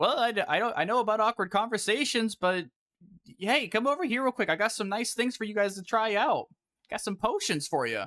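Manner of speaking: high hollering. Game master voices a character who calls the group over; shouting out. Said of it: "this guy is gonna shout at you".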